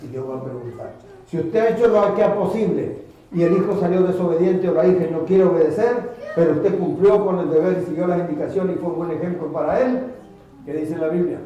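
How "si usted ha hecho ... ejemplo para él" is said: booming, emphatic preacher voice; loud preaching. Acted. Preacher addresses parents in a loud booming voice. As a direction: preach it out to the back row.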